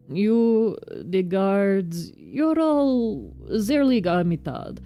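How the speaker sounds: a touch of an indignant Russian foreman; Russian accent. Acted. Foreman condemning guards who respect nothing, light Russian accent. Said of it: "my Russian accent".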